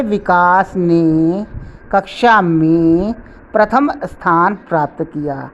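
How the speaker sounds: विकास ने and कक्षा में drawn out slowly; weight विकास ने, कक्षा में, then प्रथम स्थान, group by group; stress on विकास ने, कक्षा में, प्रथम स्थान. Shown as a demonstration. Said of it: "पर बल दिया गया है". (विकास ने, कक्षा में, प्रथम स्थान पर बल देकर)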